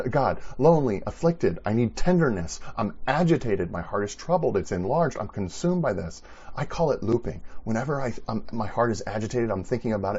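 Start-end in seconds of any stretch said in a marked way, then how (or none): 0.0-6.2 earnest listing to God. Pretend. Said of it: "He's just stating this back to God".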